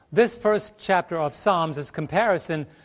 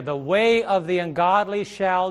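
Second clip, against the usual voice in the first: slow scripture reading; slower than usual. Shown as a demonstration. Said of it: "reading verse, pausing for answer".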